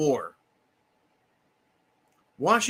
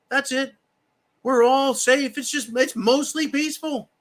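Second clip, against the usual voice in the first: higher mock-soothing voice, dripping irony; higher sarcastic "we're all safe" tone; sarcastic reassurance; 6 semitones higher than usual. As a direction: pretend to calm the folks while mocking it. Mocking reassurance about the Democrat killer.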